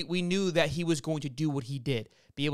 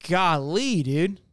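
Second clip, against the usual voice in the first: exasperated groan; 3 semitones higher, 3 dB louder, much slower than usual. Real, not acted. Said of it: "I'm extremely frustrated".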